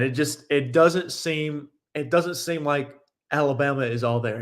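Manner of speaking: talking through hiccups; words broken by hiccups. Real, not acted. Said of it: "I got the hiccups a little bit".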